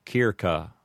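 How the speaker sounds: "circa" with a hard k, "keer-ka"; both c's hard, "keer-ka"; classical Latin. Shown as a demonstration. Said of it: "correct Latin pronunciation".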